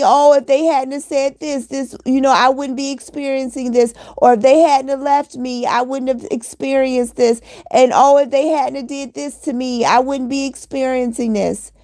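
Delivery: mocking someone who feels sorry for themselves; mock victim whine. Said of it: "We have to get out the victim mentality".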